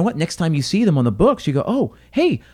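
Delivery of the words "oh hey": mock bright hello, much higher; cheery greeting. Manager spotting returning guests, a bright mock hello. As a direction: greet the regular like an old friend.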